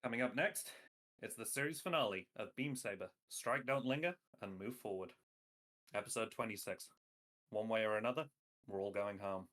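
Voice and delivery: dramatic episode preview announcer. Acted. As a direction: trailer narrator hyping the finale. Anime next-episode preview.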